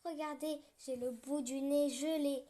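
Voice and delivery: high, loud cry for help; howling. Acted. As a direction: wail for help, freezing. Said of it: "en hurlant".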